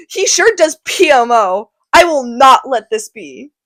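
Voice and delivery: mock contempt for Romeo; scornful Tybalt. Tybalt scorning Romeo to his uncle, mock sneering.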